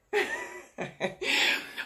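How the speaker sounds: high-pitched burst of laughter; a short, high laugh. Real, not acted. Child interrupts her video. (rire aigu)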